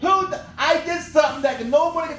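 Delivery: cracking up through the words; laughing. Real, not acted. Comedian laughing at making the magician disappear, giggling. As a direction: giggle it out, delighted with yourself. Laughing at his own joke.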